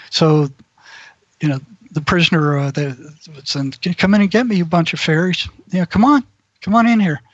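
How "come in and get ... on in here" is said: a prisoner's mock dare, raised voice; taunting shout. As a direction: jeer at the guards to come in.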